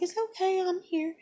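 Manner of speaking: high, gentle-level reassurance; retold soothing. Mother to her crying daughter, retold soothing. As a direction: re-enact comforting an upset child.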